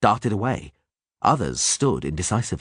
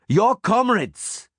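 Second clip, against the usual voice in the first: rallying yell; 14 semitones higher, much slower than usual. A narrator's reading. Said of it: "Kai yelled".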